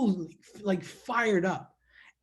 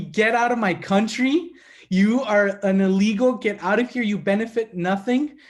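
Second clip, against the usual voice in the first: mock hostile demand; 2 semitones higher, 5 dB louder than usual. Acts out hostile people rejecting him.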